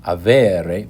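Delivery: "avere" said with no H, ah-VEH-reh; teacher shows "avere" without the H; no H sound. Shown as a demonstration. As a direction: drop the H in "avere". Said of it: "you're just left with".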